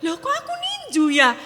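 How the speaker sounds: high, stunned, wavering voice; shocked self-question. Retold or imitated. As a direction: realize in horror what you did. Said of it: "Saya nangis". (kaget menyadari telah meninju anak sendiri)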